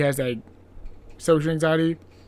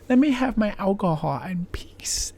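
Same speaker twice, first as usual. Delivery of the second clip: whispered aside; 4 semitones higher than usual. Retold or imitated. Host to the sailor, half-joking whispered plea. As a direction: whisper it like a guilty confession.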